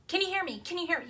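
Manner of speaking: retold frantic check down the line; panicked. Mom losing her child on the phone, panicked. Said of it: "she sounds really, really panicked".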